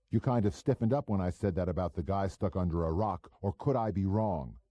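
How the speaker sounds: a hint of a cocky small-time operator; pushy hood Goebel. Goebel needling the narrator at dinner, lightly voiced cocky hood.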